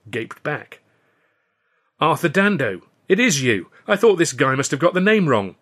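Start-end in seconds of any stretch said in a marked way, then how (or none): 2.0-5.6 put-on higher, louder greeting of an old friend; amazed, hearty recognition; delighted surprise. A narrator's reading. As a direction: exclaim it, astonished to find an old pal. Old friends meet unexpectedly.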